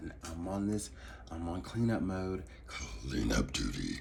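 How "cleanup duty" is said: sinister, wicked, swooping put-on villain voice. Talking about Libra energy, the speaker does a wicked-sounding put-on voice. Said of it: "I had to do that voice".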